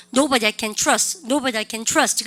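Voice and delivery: "Nobody I can trust" repeated to a slow, even beat; rhythmic English demo. Shown as a demonstration. Teacher drills the phrase for students, rhythmic repetition. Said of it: "리듬 타셔야 돼요".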